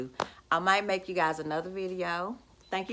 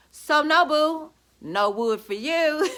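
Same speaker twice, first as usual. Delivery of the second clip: gloating; 8 semitones higher, 6 dB louder, slower than usual. Acted. Gloating at the neighbor.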